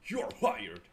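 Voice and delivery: loud, emphatic announcement; mock-delighted hiring. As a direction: burst out with an instant job offer. Acted hiring after a voice audition.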